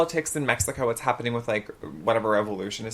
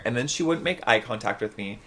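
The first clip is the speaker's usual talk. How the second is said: ordinary delivery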